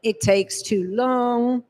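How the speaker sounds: slow, dragging, gloomy inner voice; mock weary moan of self-doubt; defeatist inner voice. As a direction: drag the words out like giving up. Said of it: "You're the voice going".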